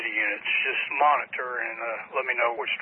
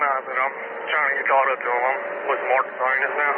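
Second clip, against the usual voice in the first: police radio. Real, not acted. Officer on radio during chase.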